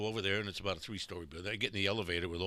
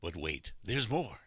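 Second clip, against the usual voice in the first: infomercial pitch; 3 semitones lower, slower than usual. Retold or imitated. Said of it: "the line that will be on my tombstone".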